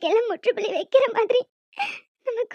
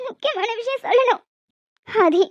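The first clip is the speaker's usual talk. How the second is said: calling out. Acted. Calling husband at office.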